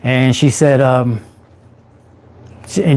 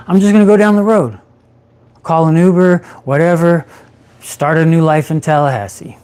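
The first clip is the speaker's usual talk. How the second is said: agitated resolve; 4 semitones higher than usual. Retold or imitated. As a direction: talk yourself into running, fired up. Planning escape, agitated.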